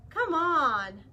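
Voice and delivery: pushy little bird haggling for time, slow on the ask; pigeon bargaining. Acted. Pigeon character voice.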